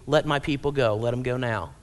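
low, measured mock command; understated firm demand; very direct. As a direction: give the order directly, dropping in pitch. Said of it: "tell him very directly".

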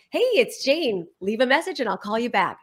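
lightly brighter, confident voicemail greeting; upbeat outgoing message. Shown as a demonstration. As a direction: say it like you're glad they called. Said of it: "So we practiced".

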